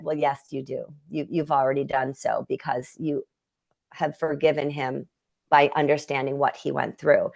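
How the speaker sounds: a soft, hushed mediator voice, lightly voiced; gentle mediator. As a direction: reassure her quietly, like a kind go-between. Mediator energy speaks gently.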